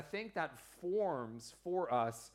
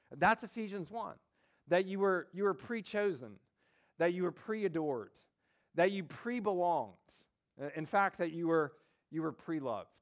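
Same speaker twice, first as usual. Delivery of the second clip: higher, louder, fervent; emphatic preaching; 4 semitones higher, 4 dB louder than usual. Real, not acted. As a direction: preach it with rising fervor. Preacher building to emphatic point.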